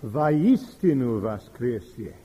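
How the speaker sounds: Vaistinu voskresie, slow and solemn in Russian; Russian response. Retold or imitated. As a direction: answer Vaistinu voskresie as a congregation. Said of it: "And we all respond".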